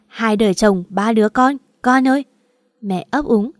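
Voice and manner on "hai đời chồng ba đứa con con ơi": "Hai đời chồng, ba đứa con" wailed loud and tearful; a mother's loud lament, voice rising on "con ơi"; crying mother. Acted. Mother crying on the phone to her daughter, loud tearful lament. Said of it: "Tôi thấy mẹ bật khóc".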